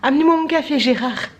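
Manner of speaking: bossy little businessman. Pretend. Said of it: "on dirait un petit commercial".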